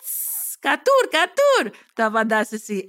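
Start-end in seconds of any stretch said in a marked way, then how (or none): 0.0-0.6 a breathless whispered τσις; tipsy whisper of τσις. Acted. 0.6-1.8 much higher and louder, κατούρ rising then falling; sing-song κατούρ twice, first up then down; tipsy broken word. Acted. Broken-language answer, tipsy.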